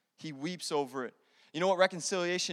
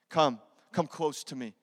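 gentle invitation; 6 semitones lower, 3 dB quieter than usual. Acted. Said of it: "Joseph said to his brothers".

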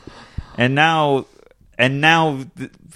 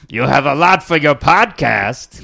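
swindler voice; 3 semitones higher, slower than usual. Retold or imitated. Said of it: "running joke".

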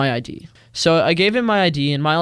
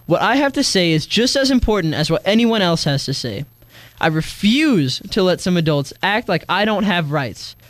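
raised, earnest statement over music; spoken-word declaration; 2 semitones higher than usual. Acted. Teen speaks out against adults who silence youth, earnest declaration. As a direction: declare your rights with conviction.

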